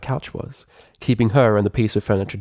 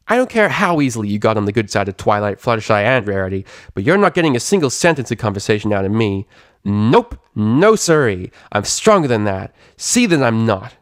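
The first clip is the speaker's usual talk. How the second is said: louder, defiant tomboy voice; Rainbow Dash, stubborn; 3 dB louder than usual. Acted. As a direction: refuse her with pride.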